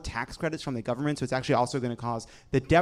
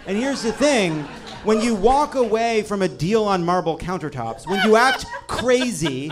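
high, loud, laughing through it; laughing rant; 8 semitones higher, 7 dB louder than usual. Real, not acted. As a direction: rant while cracking up. Laughing rant about countertops.

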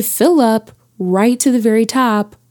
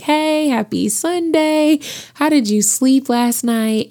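smiling dad; 4 semitones higher than usual. Retold or imitated. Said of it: "he's all smiling like".

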